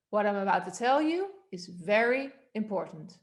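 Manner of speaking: "very important" set apart and emphasised; stress on VERY IMPORTANT. Shown as a demonstration. Coach shifting the focus for the class, stressed "very important". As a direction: lift "tell you" into a weighted "very important". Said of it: "on very important".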